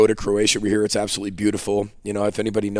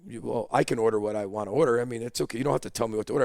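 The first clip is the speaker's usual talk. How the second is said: hushed, gentle reply across the table; quietly calm him down; soft reassuring girlfriend; 6 dB quieter, faster than usual. Retold or imitated. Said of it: "She's like".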